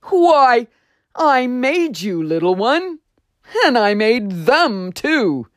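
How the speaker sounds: deep voice replying. Acted. Voice on the wind telling Juniper it made him, warmly. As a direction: answer like a loving maker. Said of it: "the deep voice replied".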